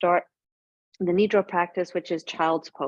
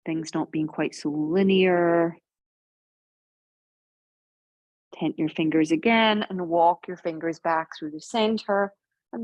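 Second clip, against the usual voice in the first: guided yoga. Real, not acted. Guides slow gentle yoga movement.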